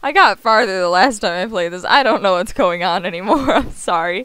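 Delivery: loud teasing showman; mock-sorry host; taunting.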